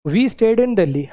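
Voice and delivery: very slow, word by word; We stayed in Delhi read slowly for writing; slow dictation. Shown as a demonstration. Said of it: "लिखना पड़ेगा".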